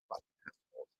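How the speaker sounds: whispered curse. Real, not acted. Muttered curse after rant.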